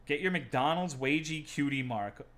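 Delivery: usual speaking voice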